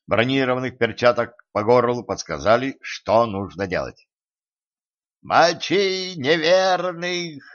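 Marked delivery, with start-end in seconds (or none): 5.2-7.4 high, slow squeaky war cry; yelling knight. A narrator's reading. Tiny knight urging attack on the giant, high yell. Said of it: "завопил рыцарь".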